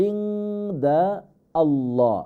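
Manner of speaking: "ইনদা আল্লাহ" split into two words, nasal n held; words unjoined. Shown as a demonstration. Teacher explaining a join, "ইনদা আল্লাহ" said apart. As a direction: pause between "ইনদা" and "আল্লাহ". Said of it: "ইনদাল এখানে সংযুক্ত হবে".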